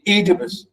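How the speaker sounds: Oedipus as EE-di-pus, first syllable stressed; Oedipus, stressed at the front. Shown as a demonstration. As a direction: lean on the long EE that opens Oedipus. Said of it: "I'm saying it. We say".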